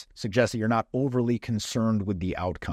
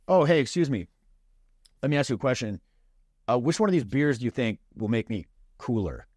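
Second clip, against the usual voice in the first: easy, unhurried "Oh, hey, excuse me", no rush; relaxed casual opener. Shown as a demonstration. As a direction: open lightly, giving it room to breathe. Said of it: "It's a very casual approach".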